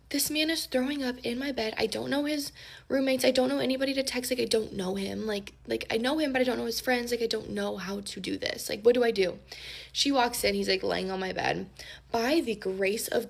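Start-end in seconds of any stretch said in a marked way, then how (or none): 0.1-9.4 frantic. Retold or imitated. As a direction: rattle it off to a sleepy roommate. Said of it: "I'm, like, freaking out".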